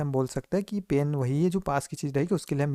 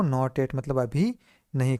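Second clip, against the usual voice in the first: slow recap; slower than usual. Shown as a demonstration. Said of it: "क्या पढ़ेंगे इसको?".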